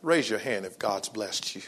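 breathy whisper with no voice; whispered invitation. Acted. Preacher whispering to the congregation to raise hands. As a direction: draw them in with a whisper.

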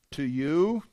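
"To you" stressed and drawn out; emphatic. Shown as a demonstration. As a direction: lean firmly on "To you". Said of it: "Those are in the emphatic position".

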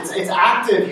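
ordinary talk

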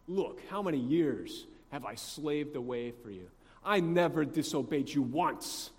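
indignant retold complaint; seething. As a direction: protest like a wronged elder son. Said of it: "you can just hear him seething".

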